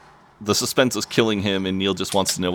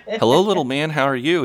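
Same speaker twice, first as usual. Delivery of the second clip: put-on high sing-song baby talk; imitated parent cooing at a little one, pitched up; parent to toddler; 8 semitones higher than usual. Parent greets little son, in high child-directed voice.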